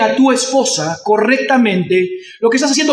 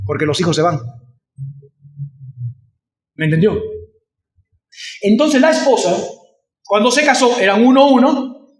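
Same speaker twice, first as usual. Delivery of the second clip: usual speaking voice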